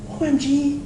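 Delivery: put-on high, gushing teen texting voice; mock valley girl. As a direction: ham up a shocked teenage girl. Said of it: "She didn't go".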